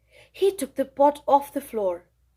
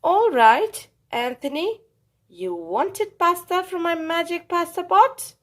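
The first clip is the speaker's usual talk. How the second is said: Strega Nonna scolding; 5 semitones higher than usual. Acted. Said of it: "Strega Nonna said".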